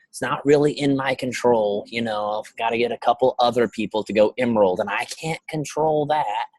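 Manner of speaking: mock wishy-washy coach voice; imitating a hesitant coach; Beachbody coach voice. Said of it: "my make fun of Beachbody coach voice".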